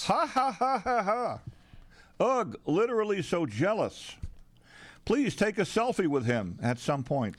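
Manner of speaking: high mock girlfriend gush. Girlfriend role texts.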